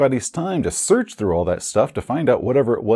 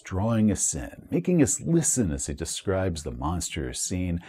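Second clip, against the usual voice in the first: softer, slower, drawing listeners in; lowered voice; 5 semitones lower, 6 dB quieter than usual. Shown as a demonstration. Game master hushing players before the horror, softly. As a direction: pull the table in with a hushed telling. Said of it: "he slowly starts lowering his voice".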